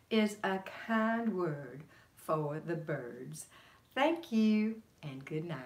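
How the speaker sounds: deliberate comic speechifying, lingering on each phrase; Lady Bird Johnson. Acted. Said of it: "I was Lady Bird Johnson".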